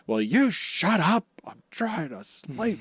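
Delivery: high mock yell that drops off, sleepy and slow; grumpy swordsman woken from a nap; imitating Zoro. Zoro bursting through the door to complain about noise, mock grumpy yell. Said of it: "Zoro there being like".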